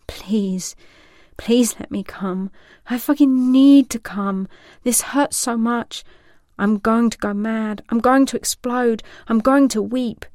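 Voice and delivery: beg, starting hushed and then breaking loose; desperate begging. Acted. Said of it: "He starts to beg".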